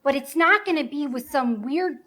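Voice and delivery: defiant vow. Acted.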